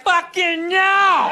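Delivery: drawn-out slow inner shout of refusal; inner scream. Retold or imitated. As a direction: belt out the silent no. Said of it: "inside you're like".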